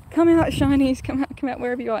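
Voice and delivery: luring sing-song call; sing-song taunting. Pretend. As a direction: coax them out playfully. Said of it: "the speaker's trying to lure you out".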